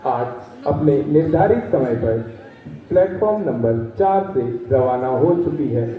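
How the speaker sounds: low station announcer on the PA; over the intercom. Acted. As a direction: read it like a railway loudspeaker.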